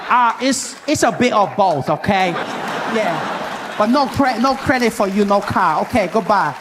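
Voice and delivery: put-on dismissive Asian English accent. Car salesman refusing the deal, dismissive Asian accent. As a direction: brush the customer off in an Asian accent. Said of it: "there's this Asian gentleman helping me".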